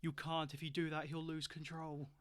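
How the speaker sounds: mildly strained, urgent warning; lightly acted pained plea; strained words. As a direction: force the words out between screams, understated. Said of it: "strain her screaming long enough to get some words out".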